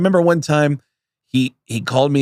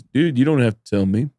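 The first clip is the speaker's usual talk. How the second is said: Judah Friedlander; 5 semitones lower than usual. Retold or imitated. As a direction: imitate a tall-tale teller, pausing between phrases. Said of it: "And Judah goes".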